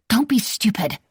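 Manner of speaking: sharp conscience. A narrator's reading. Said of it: "sharp, condemning voice".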